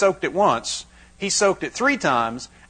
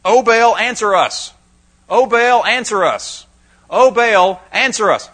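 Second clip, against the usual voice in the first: loud, high, desperate cry to Baal; screaming plea; 7 semitones higher, 8 dB louder, slower than usual. Retold or imitated. Priests of Baal screaming for their god to answer. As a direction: scream it out like a frantic crowd. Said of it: "they screamed out".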